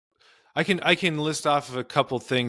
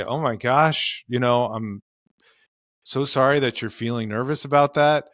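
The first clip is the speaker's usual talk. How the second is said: accepting response. Shown as a demonstration. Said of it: "I'm giving her some acceptance".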